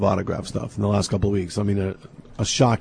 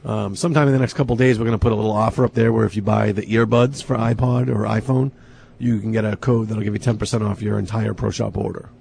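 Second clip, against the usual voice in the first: losing voice. Real, not acted. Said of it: "Sorry, I'm losing my voice".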